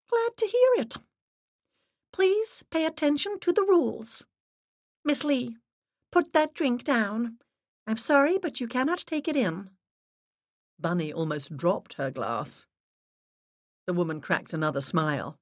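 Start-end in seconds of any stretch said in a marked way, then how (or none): 0.1-9.7 high, grave, steady voice; solemn medium's assistant. Acted. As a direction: speak like a severe séance guide. Assistant's held voice.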